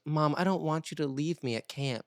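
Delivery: lightly imitated child's plea; a hint of a nervous kid pleading with mom; Riley. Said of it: "and he goes".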